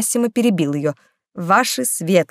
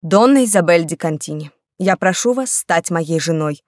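soft proposal. Acted. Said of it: "мягким голосом сказал".

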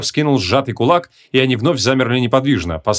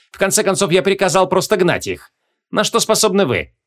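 raised, lightly voiced doubtful king; skeptical king voice; 4 semitones higher than usual. A narrator's reading. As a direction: challenge him with royal skepticism. King questions the sorcerer.

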